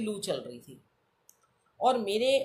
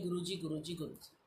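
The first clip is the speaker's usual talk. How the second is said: fading, hushed repeated Guru जी, much softer; murmured echo; 3 semitones lower, 10 dB quieter than usual. Retold or imitated. Recalling passengers' chatter in her ears as a fading murmur. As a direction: let the words fade away like distant chatter. Echoing murmurs heard on the metro.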